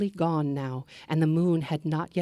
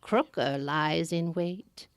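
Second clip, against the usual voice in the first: put-on slow, higher, otherworldly old woman; a kindly but eerie old crone, drawn out; old woman in green; 3 semitones higher than usual. Old woman warns traveler.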